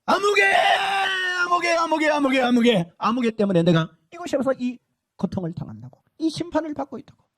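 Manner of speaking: shouted curse, high then falling; damned man cursing the woman who led him astray; cursing a name. Retold or imitated. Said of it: "막 저주합니다".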